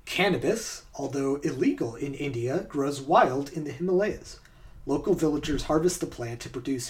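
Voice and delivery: measured scripted documentary read; story narration. Acted. Host reads a true-or-false story to players, narration.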